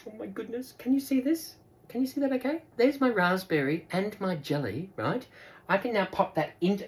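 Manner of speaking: soft, hushed aside to viewers; quietly, almost whispering; hushed, near whisper. Real, not acted. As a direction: drop your voice as if sharing a secret. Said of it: "I don't know why I'm whispering all of a sudden".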